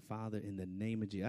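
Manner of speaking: low, soft prayer under the breath; quiet praying. Retold or imitated. Driver praying in the squad car, quiet prayer. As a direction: pray softly to yourself. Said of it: "Just praying in the Holy Ghost".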